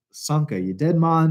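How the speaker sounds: mock Jamaican movie quote; bad Jamaican accent. Host quoting Cool Runnings before his turn, bad Jamaican accent. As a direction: warm up in a rough Jamaican accent. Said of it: "bad Jamaican accent we do".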